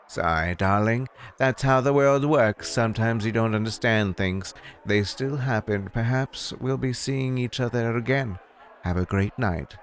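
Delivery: lightly voiced grand hostess brushing someone off; a hint of a haughty proprietress; dismissive bar owner. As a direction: send them away with a polite "darling". Voices Clarissa sending Wallace off.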